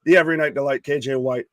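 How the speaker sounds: loud, booming ring announcer intro; ringmaster. Acted. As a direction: call it out like a ringmaster.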